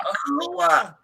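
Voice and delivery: mimicked high-pitched "whore"; exaggerated "whore". Shown as a demonstration. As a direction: copy the high "hoo-ah" way of saying "whore". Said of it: "I can't say it like he can".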